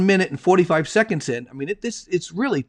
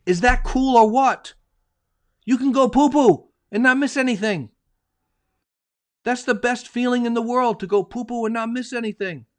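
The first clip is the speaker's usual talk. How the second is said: excited pitch; 6 semitones higher than usual. Real, not acted. Host pitching the app to listeners, high and gleeful. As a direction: sell it like the best news ever.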